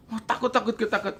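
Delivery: half-laughing scared friend; laughing mock fear. Friend answers he is too scared to throw it, laughing softly.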